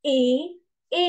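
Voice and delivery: "A" as a pure French é; accented E sound. Shown as a demonstration. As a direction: say "A" as a held "ay". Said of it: "သူ့ရဲ့အသံက".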